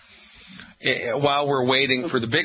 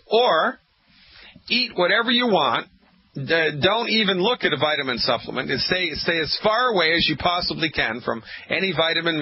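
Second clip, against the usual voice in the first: sarcastic mock advice; 4 semitones higher than usual. Radio doctor mocks listeners who skip supplements, sarcastically. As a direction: sell the bad idea with heavy sarcasm. Mocking the opposite health advice.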